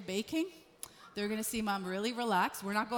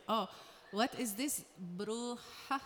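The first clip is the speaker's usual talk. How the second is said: puzzled reading; 3 semitones lower, 7 dB quieter than usual. Acted. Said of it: "he's reading my shirt".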